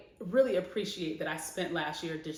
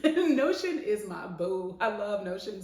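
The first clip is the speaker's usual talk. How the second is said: laughing; 3 semitones higher, 5 dB louder than usual. Real, not acted. Gushing about her favorite app.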